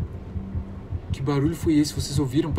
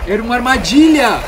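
high, loud alarmed cry; shocked realization of a trap; panicking gamer; 8 semitones higher, 10 dB louder than usual. Real, not acted.

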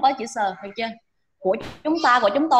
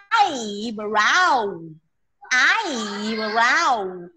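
"eyebrow" drawn out, EYE pitched up, brow falling; stress on first syllable; much slower than usual. Shown as a demonstration. Teacher showing students where the stress falls, stressed "eyebrow". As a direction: lean long on the EYE of "eyebrow". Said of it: "Nó trọng âm rơi vào âm đầu tiên".

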